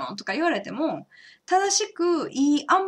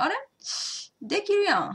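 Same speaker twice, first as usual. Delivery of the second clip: surprised; 9 semitones higher, faster than usual. Retold or imitated. Retelling finding she can do it.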